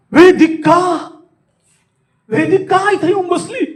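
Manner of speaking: high, amazed exclamation; astonishment. Shown as a demonstration. Speaker discovers Vedika sitting in class, astonished. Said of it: "आश्चर्य".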